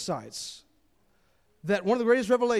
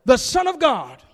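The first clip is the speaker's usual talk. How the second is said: louder and higher, slow and drawn out; devils crying out; 5 semitones higher, 7 dB louder, slower than usual. A narrator's reading. Preacher reading the devils crying out to Jesus, loud and slow. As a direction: cry it out slowly, like a voice from a possessed man. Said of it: "crying out, saying".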